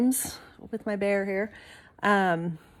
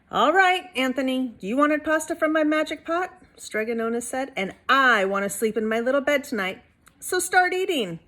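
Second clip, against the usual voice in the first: stern Strega Nona; 4 semitones higher than usual. Acted. Stregonona scolding Anthony.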